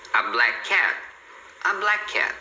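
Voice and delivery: BLACK CAT with one single K, "bla-cat"; linked consonants. Shown as a demonstration. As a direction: merge the end of "black" into "cat". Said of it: "você fala uma só".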